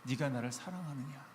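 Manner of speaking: soft, gentle asking; 부드럽고 다정하게 묻는 말투; tender question. Shown as a demonstration. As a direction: hush it out as pure loving concern. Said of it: "그냥 단 하나, 한 가지 질문하신 거예요".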